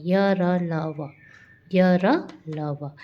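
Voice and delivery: य, र, ल, व drawn out, very slow and separate; very slow spelled letters. Shown as a demonstration. Teacher spelling out the semivowels slowly for the class. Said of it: "teacher spells the letters".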